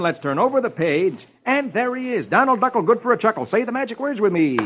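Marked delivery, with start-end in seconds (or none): 1.5-4.6 high, bouncy jingle intro; sing-song it for the kids; cheery announcing. Acted. Announcing Donald Duck jingle.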